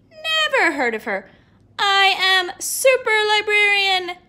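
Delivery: loud, slow heroic voice; lady in a cape denying she's the librarian; superhero voice. Acted. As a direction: proclaim like a caped hero. Superhero voice in read story.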